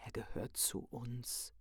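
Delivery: a gentle secret passed to the other horse; whispering. A narrator's reading. The mare tells Lotte the pup belongs to them, hushed. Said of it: "flüsterte sie der Lotte zu".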